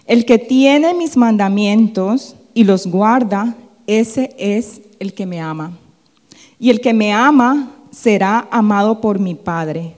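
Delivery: slow, loud Bible verse; deliberate, projected recitation; scripture reading. Acted. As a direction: read it out slowly and firmly, easing off at the end. Reads the verse aloud.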